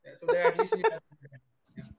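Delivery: high laughing voice. Real, not acted. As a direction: laugh through it. Laughing while joking.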